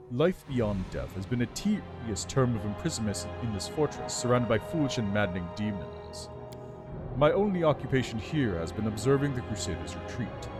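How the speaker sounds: lightly voiced regal undead lich; haughty undead lord, measured and cool. Lich tells his story.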